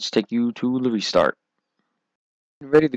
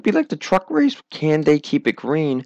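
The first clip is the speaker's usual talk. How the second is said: voice cracking; 5 semitones higher than usual. Real, not acted. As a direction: voice cracks mid-question. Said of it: "A little bit of a voice crack there on my part".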